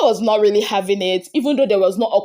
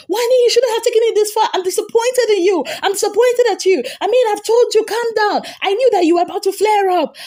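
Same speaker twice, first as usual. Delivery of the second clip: much higher, fast, disappointed scolding; scolding Handi; 11 semitones higher than usual. Retold or imitated. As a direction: scold her high and fast like a let-down friend. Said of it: "And it was like".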